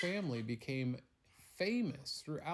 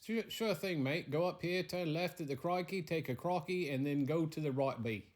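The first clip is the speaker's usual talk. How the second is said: higher, louder hammed-up Australian giving directions; Aussie local; 5 semitones higher, 3 dB louder than usual. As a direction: play a cheery Australian local pointing the way.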